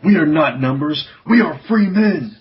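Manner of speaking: loud, rising defiant declaration; proud prisoner crying out he is free. Acted. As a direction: shout your freedom to the captor.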